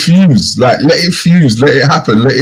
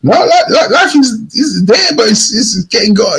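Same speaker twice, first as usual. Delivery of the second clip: higher, stumbling mock complaint; strained, pained quote; 6 semitones higher than usual. Imitating someone struggling, higher and halting. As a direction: stammer it out like it's all going wrong. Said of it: "listen to the tone that some people say it".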